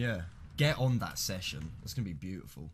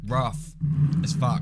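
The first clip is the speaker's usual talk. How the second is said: loud exclamation; 4 semitones higher, 10 dB louder, slower than usual. Real, not acted. Reacting to rough terrain.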